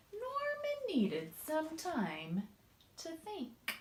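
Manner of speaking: hushed, slowing down. A narrator's reading. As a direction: trail off into thought. Slow thinking pause.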